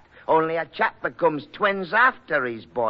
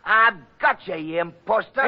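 higher, louder gotcha cry; triumphant accusation; 5 semitones higher, 4 dB louder than usual. Acted. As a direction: pounce on him in triumph. Catches the impostor.

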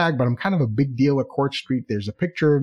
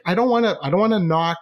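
higher, mildly cranky protest; 5 semitones higher than usual. Retold or imitated. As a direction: grumble reluctantly, a touch whiny. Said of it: "you know, and I'm cranky".

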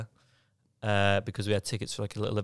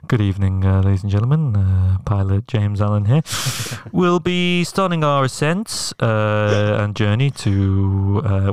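louder airline pilot announcement; 3 semitones lower, 8 dB louder than usual. Pretend. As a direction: announce it like a captain. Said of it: "Do your pilot voice".

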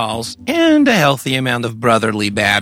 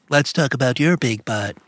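lightly voiced goofy manchild; a hint of a squeaky man-child; Pee Wee Herman voice; 4 dB quieter than usual. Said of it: "a play on the Pee Wee Herman".

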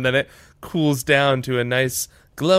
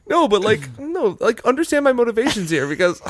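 frantic pleading ex; 11 semitones higher than usual. Acted. Mock pleading to ex, high fast.

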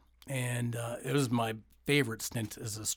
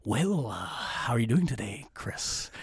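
ring announcer voice; slower than usual. Retold or imitated. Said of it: "he'd go into a ring announcer voice".

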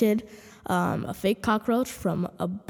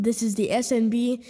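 echoing room. Real, not acted. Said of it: "the audio sounds a little bit echoey".

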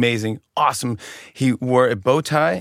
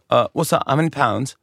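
fake British accent; 2 semitones higher than usual. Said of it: "That was my accent".

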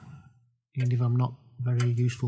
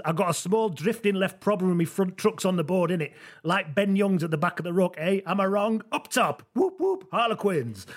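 lightly voiced skateboarder, pitched higher; hint of a matey rugby lad, rising to whoops; Hugo; 5 semitones higher than usual. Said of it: "It's Hugo".

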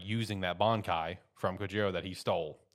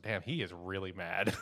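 laughing quote. Retold or imitated. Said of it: "one of them was like".

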